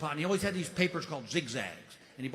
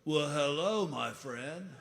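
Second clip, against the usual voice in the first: stoner voice; slower than usual. Retold or imitated. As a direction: drawl it like a mellow pothead. Stoner greets from behind.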